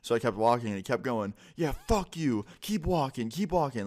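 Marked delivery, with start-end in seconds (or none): 1.5-3.8 high-pitched mock taunts of a boyfriend; taunting. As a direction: imitate someone jeering after you, voice pitched up. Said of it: "he just kept trying to taunt me".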